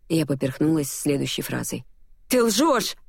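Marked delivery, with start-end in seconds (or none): 2.3-3.0 much higher, hot accusation; furious accusation; angry. A narrator's reading. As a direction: snap it at him in anger. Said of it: "рассердилась я".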